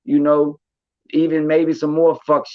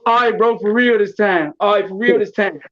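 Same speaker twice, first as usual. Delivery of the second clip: mock boast; 4 semitones higher than usual. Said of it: "He said".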